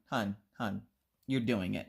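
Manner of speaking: low, soft imitated husband; gentle warning. Husband cautioning his dramatic wife, gentle warning. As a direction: quietly nudge her to stop.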